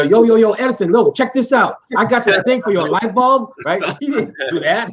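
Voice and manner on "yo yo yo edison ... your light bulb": higher, louder mock street greeting; lightly hammed-up street slang pitch to Edison; Louis Lattimore street talk. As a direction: hype up the inventor with a casual yo. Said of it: "Louis Lattimore would go".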